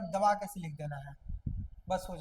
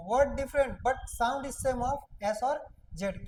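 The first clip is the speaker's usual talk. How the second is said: slow recap; 2 semitones higher, much slower than usual. Shown as a demonstration. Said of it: "हम क्या बोले कि".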